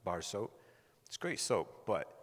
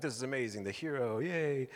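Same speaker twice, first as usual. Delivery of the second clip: higher-pitched, playful hero's welcome; mock cheering welcome; 5 semitones higher than usual. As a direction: cheer dad in, lightly hammed-up. Imagined cheers greeting dad coming home.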